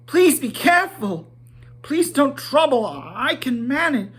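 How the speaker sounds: high, frightened squeak, half whispered; a panicked hobbit squeaking after the dwarves; squeaking with fright. A narrator's reading. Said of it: "almost squeaking with fright".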